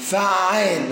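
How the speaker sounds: فعال said slowly with the ain held long, fa''aal; فعال with a clearly doubled ain; doubled ain shown. Shown as a demonstration. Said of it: "والعين مشددة".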